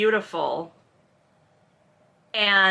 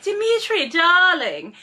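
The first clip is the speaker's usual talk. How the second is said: high, louder "darling" with theatrical flourish; gushing socialite greeting; 8 semitones higher, 4 dB louder, slower than usual. Acted. Caroline coming up to air-kiss Dmitri, gushing greeting. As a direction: sing out an effusive hello. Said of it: "she's like".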